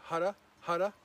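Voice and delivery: loud high panting, tongue out; panting like a dog. Shown as a demonstration. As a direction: pant out hara like a dog. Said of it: "panting like a dog".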